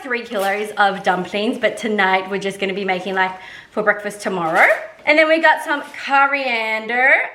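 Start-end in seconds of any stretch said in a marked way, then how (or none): 5.1-7.3 slight put-on American accent, a touch higher; breezy host reading the ingredient list in a light American accent. Showing the viewers her ingredients in a mild American accent. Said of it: "I'm putting on an American accent".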